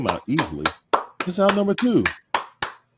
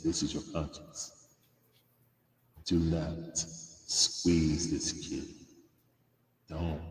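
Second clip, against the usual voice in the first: small prim nagging conscience; 7 semitones lower, much slower than usual. Pretend. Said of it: "that's my conscience talking to Snit".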